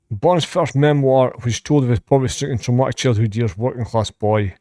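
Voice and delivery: brisk read-out of a biography; reading aloud. Real, not acted. Reactor reading a singer's career facts to viewers, evenly read out. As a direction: recite the facts evenly off the page.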